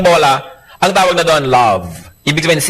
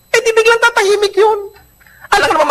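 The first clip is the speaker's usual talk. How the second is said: high mock voice.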